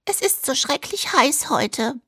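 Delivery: slow, high come-on; sultry dubbed housewife. Acted. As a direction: play the coy seductress.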